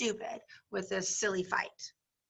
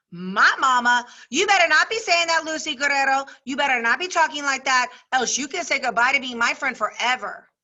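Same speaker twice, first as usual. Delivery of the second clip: put-on offended girl; 2 semitones higher, 4 dB louder than usual. Girl warning Lucy off insulting her mother, indignant. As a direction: bristle up and threaten her friend. Girls' quarrel acted in story.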